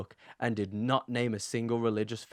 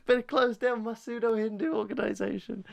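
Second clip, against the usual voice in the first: higher, hammed-up voice of a caught cult leader; mock defeated guru; 9 semitones higher than usual. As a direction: play a busted guru, overacted. Mocking Dmitry giving up.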